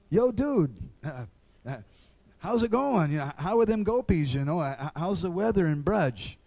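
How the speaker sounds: hammed-up "yo, dude" small talk; mock casual greeting.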